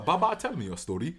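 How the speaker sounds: a hint of Wakandan accent. Son addressing Baba, light mock Wakandan accent. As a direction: lightly imitate a Wakandan speaker. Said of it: "the Wakandan accent".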